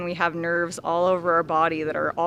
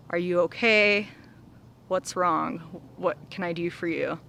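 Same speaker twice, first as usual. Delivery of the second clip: caring. Retold or imitated. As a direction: ask it kindly, like a friend. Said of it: "that's not the reaction I wanna have".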